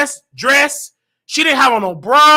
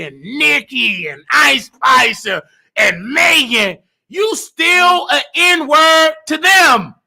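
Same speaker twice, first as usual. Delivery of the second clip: angry preaching; slower than usual. Real, not acted. Telling viewers they are still outsiders, slow angry preaching. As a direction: drag it out like a sermon at full force.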